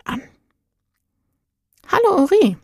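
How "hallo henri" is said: a high, gentle angel's hello; calm greeting. A narrator's reading. Angel calmly greets the crying girl Henri, gentle. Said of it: "sagte er ruhig".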